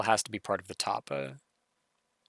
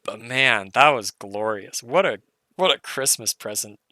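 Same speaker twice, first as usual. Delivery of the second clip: delighted; 7 dB louder than usual. Real, not acted. Delighted at the puzzle.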